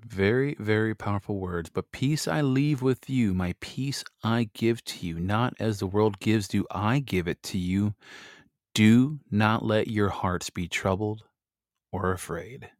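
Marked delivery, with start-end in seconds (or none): 1.7-12.7 slow, measured Bible reading; scripture reading. Acted. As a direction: read it solemnly and slowly. Reads scripture aloud slowly.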